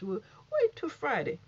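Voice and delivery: lightly voiced sassy host; imitating Tasha K. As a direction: drawl it out like a gossip host hyping her fans. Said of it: "she talked like this".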